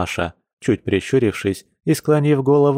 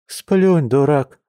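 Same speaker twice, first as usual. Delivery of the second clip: scoffing; 6 semitones higher, 4 dB louder, much slower than usual. A narrator's reading. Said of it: "хмыкнула женщина".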